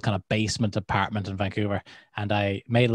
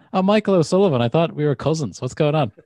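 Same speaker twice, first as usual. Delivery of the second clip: mock overfamiliar caller; 5 semitones higher than usual. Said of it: "Be like".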